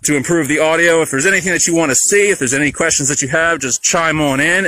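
muffled by a face mask; through a face mask. Real, not acted. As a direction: talk through a cloth mask. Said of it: "We're trying to talk through masks".

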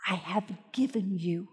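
God reassuring Joshua quietly; soft whisper. Acted. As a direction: breathe it gently. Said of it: "He's going".

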